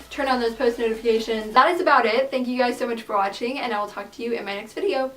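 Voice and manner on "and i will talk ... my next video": voice crack. Real, not acted. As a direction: voice cracks on the last word. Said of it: "Why does my voice crack?".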